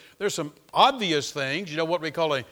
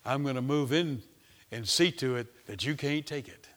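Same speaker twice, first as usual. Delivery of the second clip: mocking devil; 2 semitones lower than usual. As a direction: gloat like the devil moving in. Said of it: "And the devil goes".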